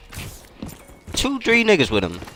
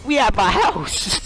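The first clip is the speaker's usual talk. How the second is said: higher, slowed "we at my house" in disbelief; slow dawning shock on "we"; stunned realization; 6 semitones higher, slower than usual. Retold or imitated. After kicking down the shed door, stunned and slow.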